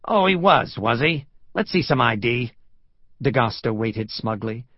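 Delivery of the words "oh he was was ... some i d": loud, high start, settling into a demand; scornful police lieutenant; sceptical challenge. Acted. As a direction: challenge the stranger's story with sarcasm.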